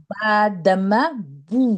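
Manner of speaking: slow "بو" with lips rounded nearly closed. Shown as a demonstration. Teacher showing students damma, slow rounded oo. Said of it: "ہونٹوں کو گول کر".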